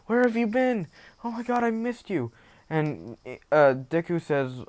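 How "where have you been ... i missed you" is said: high, tearful mother voice; mock tearful. Mother greeting her long-missing son, mock tearful and high. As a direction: play a mother overcome by a reunion. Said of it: "she starts tearing up".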